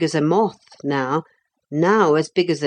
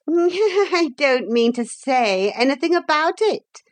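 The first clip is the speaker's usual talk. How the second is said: high giggly evasive reply; unpleasant giggle; 10 semitones higher than usual. A narrator's reading. Pretenderette dodging Philip's question, unpleasant giggle. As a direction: giggle first, then answer high and falsely innocent. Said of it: "answered with an unpleasant giggle".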